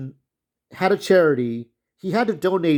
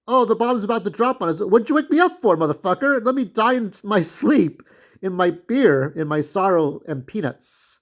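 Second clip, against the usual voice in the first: mock grumpy drunk; 4 semitones higher than usual. Grumpy drunk woken as bombs fall.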